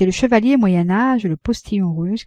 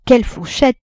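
wide-eyed wonder, pitched higher; a child gasping at how much she eats; amazed child; 5 semitones higher, 4 dB louder than usual. A narrator's reading. L'enfant ébahi devant la Vatnaz, émerveillé. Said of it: "répétait l'enfant, le cœur ébahi".

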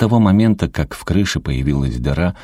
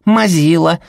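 put-on high, loud kids' jeer; mock grandma like giggling children; little boys chanting a tease; children taunting; 13 semitones higher, 5 dB louder, slower than usual. A narrator's reading. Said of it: "Дети ... повторили".

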